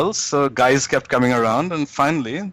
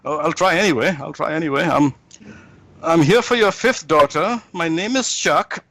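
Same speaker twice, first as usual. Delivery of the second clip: higher-pitched nervous suitor in a joke; lightly acted fright, pitched up; mock terrified; 5 semitones higher than usual. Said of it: "is terrified. He starts shaking".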